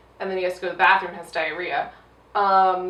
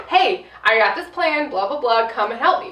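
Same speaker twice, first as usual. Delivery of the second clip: mock eager friend. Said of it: "Instead of".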